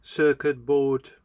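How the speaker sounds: circuit slowed and punched loud; stress on circuit. Real, not acted. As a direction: hit circuit firmly and slowly. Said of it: "not circus".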